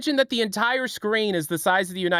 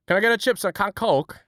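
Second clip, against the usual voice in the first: attempted Scouse accent. Shown as a demonstration. American trying a Scouse food order, exaggerated accent. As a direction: have a rough go at Scouse.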